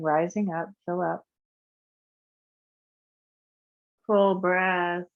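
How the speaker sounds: calm, unhurried guiding voice for a breath practice; guided meditation. Acted. Teacher guiding a class through breath practice, soothing. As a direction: lead the breathing gently and evenly.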